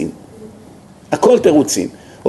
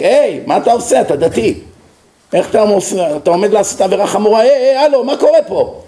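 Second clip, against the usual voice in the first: conscience yelling. Acted. Inner conscience shouting at the sinner, alarmed yell. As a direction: let the conscience cry out to stop him. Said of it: "המצפון מבפנים צועק".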